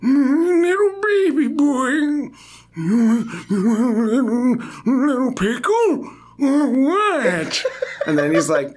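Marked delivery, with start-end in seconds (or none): 0.0-7.7 put-on high, slow, strained old man voice; hammed-up sarcastic old codger. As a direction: croak it like a mocking grandpa. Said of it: "the sarcastic old man voice".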